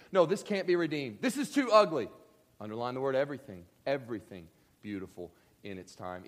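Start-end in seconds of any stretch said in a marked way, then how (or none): 0.1-2.1 higher, louder despairing protest; hammed-up hopeless objection, too stressed; a listener insisting it's too ugly, higher and louder; voicing despair. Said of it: "You think".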